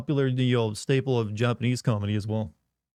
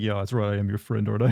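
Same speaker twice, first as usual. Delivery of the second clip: lower-pitched imitation of a European accent; 4 semitones lower, faster than usual. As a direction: play a European pal in accented English. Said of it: "when they're speaking in their accent".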